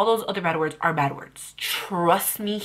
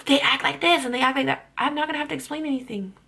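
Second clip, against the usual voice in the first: louder, higher mock outrage; mock shocked haters; 6 semitones higher, 4 dB louder than usual. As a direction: ham up the shocked commenters. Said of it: "They're like".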